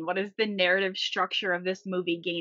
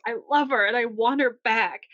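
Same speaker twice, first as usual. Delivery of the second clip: mild mock yell, raised in pitch; retold yell; 3 semitones higher, 4 dB louder than usual. Man standing up for Rose, imitated mild yell. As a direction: imitate a lovelorn declaration, a little louder. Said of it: "and he yells".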